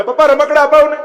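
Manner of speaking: put-on high-pitched little boy whining for toys; child pleading. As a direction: beg like a small boy tugging his father's hand. Child begging father at fair. (બાળકની જેમ કાલાવાલા કરતો અવાજ)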